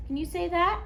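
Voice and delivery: put-on singsong teacher voice for little kids; broad singsong kids theatre. Shown as a demonstration. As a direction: sing it out to a preschool class. Teacher demonstrating U sounds.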